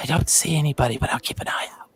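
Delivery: close whisper into the ear. Voicing a character who whispers into another's ear: whispering into someone's ear. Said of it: "you hear Karina whisper into your ear".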